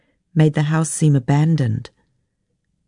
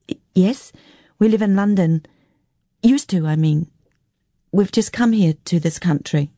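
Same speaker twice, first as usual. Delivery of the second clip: lightly voiced shy child with a stammered start; hesitant young girl; 4 semitones higher than usual. Girl answering a stranger about home, hesitant. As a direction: answer timidly as a polite girl.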